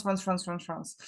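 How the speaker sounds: France said the French way, nasal vowel and French r, repeated; French accent. Shown as a demonstration. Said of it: "that sounded really French right now".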